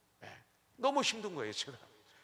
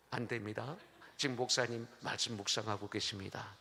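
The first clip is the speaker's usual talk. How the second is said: lightly voiced, lower-pitched official refusal; imitated firm secretary; 6 semitones lower than usual. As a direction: play a secretary politely stonewalling. Secretary refuses pastor's wife's call. (단호한 비서를 살짝 흉내 내며)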